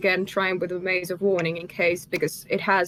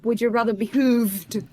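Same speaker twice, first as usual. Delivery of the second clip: in-character shout; 2 semitones higher than usual. Acted. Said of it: "I'm going to shout at the man".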